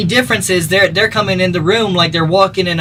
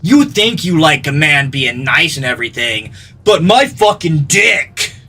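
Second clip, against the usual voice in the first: mocking punk guy. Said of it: "Somewhere in their head".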